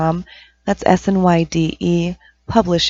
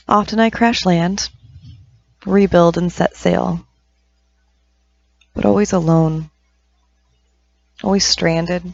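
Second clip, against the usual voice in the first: measured poetry recital with long pauses between lines; poem reading. Acted. Poet reading Sailing to listeners, measured poem reading. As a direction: recite it line by line, letting each phrase hang. Reads own poem aloud.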